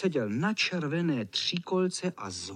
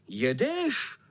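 shouting; 7 semitones higher than usual. Acted. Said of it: "vykřikli".

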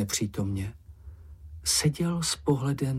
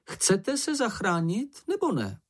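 raised and slow, insistent; exasperated chairman; 11 semitones higher than usual. A narrator's reading. Ferko tapping his pencil, pleading with the group in a lightly raised voice. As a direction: lean on each word in frustration.

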